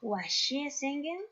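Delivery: slow, careful English question; teacher modelling a question to the class slowly; slow model reading. Shown as a demonstration. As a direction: spell it out slowly for learners. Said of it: "teacher reads example question".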